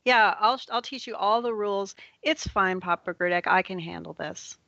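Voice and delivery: put-on high, eager little-kid voice; confident child. Siobhan offers to teach the rules, confident child. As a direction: take charge like a self-assured child.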